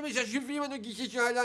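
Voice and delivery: high, loud lisped outburst; furious little boy turning s into sh; speech defect. Acted. Little boy confronting the prankster, lisped fury. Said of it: "il parle comme ça".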